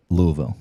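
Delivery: Louisville tried as Luvul; visitor's attempt at the local name. Shown as a demonstration. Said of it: "that's very good".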